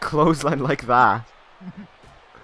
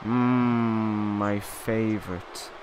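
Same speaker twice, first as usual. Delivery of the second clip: very slow, deadpan "my favorite"; mock enthusiasm, unimpressed; dry sarcasm; 5 semitones lower, 4 dB quieter, much slower than usual. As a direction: drag it out, flatly sarcastic.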